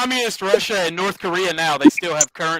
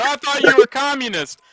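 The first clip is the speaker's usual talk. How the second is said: raised, mocking critic's voice; mocking objector; 9 semitones higher than usual. Explaining politics on stream, mimicking a critic's jab in a mock voice. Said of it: "before somebody wants to go".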